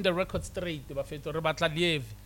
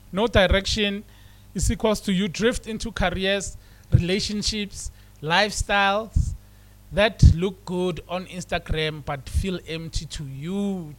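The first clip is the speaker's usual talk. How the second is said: louder, pushed emphasis; first louder reading of the line; louder first take; 6 dB louder than usual. Shown as a demonstration. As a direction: drive each word home. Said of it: "let me say it again".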